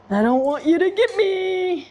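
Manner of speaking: squeaky worried plea to the dog; high pleading voice. Real, not acted. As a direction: repeat it up high, half-joking plea. Repeated to the dog, pitched up.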